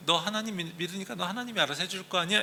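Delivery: sarcastic jeer. Acted. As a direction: taunt a believer with a sneer. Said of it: "이렇게 비웃고 빈정거리는 모습". (빈정거리는 비웃음)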